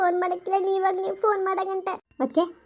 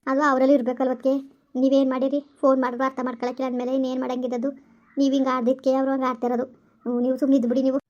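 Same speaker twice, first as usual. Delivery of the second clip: lower, firm motherly comfort, a bit faster; consoling mother-in-law; 5 semitones lower, faster than usual. Acted. Mother-in-law hushing her crying pregnant daughter-in-law, lower comforting voice. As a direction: talk her out of crying like an older woman.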